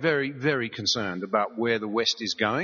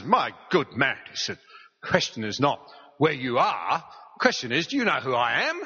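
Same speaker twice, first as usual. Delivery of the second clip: British admiral. Retold or imitated. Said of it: "as only the Brits can do".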